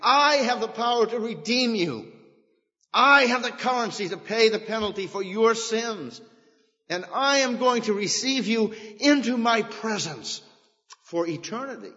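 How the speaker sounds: high, grand, proclaiming divine voice; voice of God. Acted. Preacher voicing God promising redemption, high and grand. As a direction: speak as God making a promise. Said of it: "God is saying".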